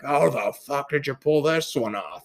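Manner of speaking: mock dad scolding; dad's grilling voice. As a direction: do dad's voice, demanding an explanation. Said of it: "same voice as the grill".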